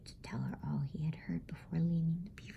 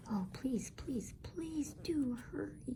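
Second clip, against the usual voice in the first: whispered begging, pitch climbing high and slow; a hushed childish plea, slowed and high; pleading; 9 semitones higher, slower than usual. Acted. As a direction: plead urgently, breathless in a whisper.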